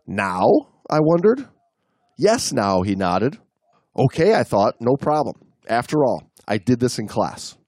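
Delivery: measured read-aloud storytelling; story narration. A narrator's reading. Reading a diver's account to the co-host, story narration. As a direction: read it out in deliberate phrases, pausing between them.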